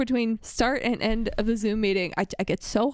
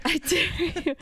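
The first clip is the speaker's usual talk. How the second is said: playful dare; 5 semitones higher, slower than usual. Real, not acted. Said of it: "repeated dare, higher".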